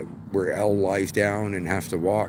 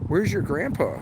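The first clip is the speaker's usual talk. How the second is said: mock lady voice, pitched up; raised, questioning stranger voice; nosy lady's question; 7 semitones higher than usual. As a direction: lightly imitate a curious stranger asking. Stranger lady quoted asking daughter.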